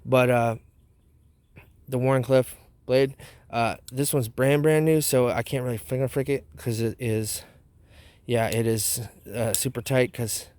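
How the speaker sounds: talking with tobacco dip in lip; dip in mouth. Real, not acted. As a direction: speak around a lip of dip. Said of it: "it's 'cause I have dip in my mouth".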